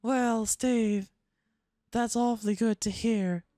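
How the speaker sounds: slow, put-on Southern belle drawl. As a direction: flirt with the other puppet in Southern accent. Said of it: "She's a Southern belle".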